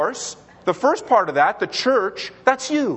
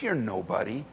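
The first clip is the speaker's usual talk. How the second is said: lightly voiced tempter, mostly lower; understated, dismissive accuser's voice; enemy's taunts; 4 semitones lower than usual. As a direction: belittle the listener with a hint of the devil. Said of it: "the enemy comes along and says".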